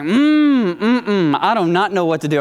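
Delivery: hint of an exasperated parent hum; lightly voiced, at a loss; weary parent. Preacher plays a parent at a loss with a child, mild exasperation. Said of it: "And you're just like".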